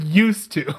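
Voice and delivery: "used to" leaned on, dropped low and slow; stress on used to. Shown as a demonstration. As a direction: land hard on "used to", knowing. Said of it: "Emphasis on the word".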